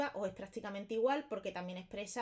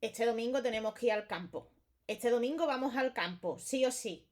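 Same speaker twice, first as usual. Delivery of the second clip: louder, insistent order; teacher demos a firm order to students; firm command; 4 dB louder than usual. Shown as a demonstration. Teacher tells the class firmly, a bit louder. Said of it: "que es un mandato".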